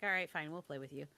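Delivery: quick, reluctant giving-in; mildly grudging, imitating reluctant players; begrudging agreement. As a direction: toss it off like a reluctant yes. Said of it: "they kind of begrudgingly came over".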